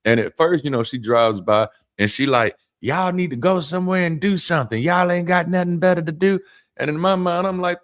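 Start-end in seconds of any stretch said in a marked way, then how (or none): 2.8-6.4 higher-pitched voice of a nagging lady; scolding lady. Retold or imitated. Lady driving by scolds two men sitting outside, mock scolding. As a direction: imitate a woman telling off loiterers. Voicing lady passing in truck.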